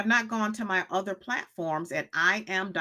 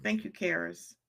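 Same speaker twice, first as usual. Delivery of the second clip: normal talking voice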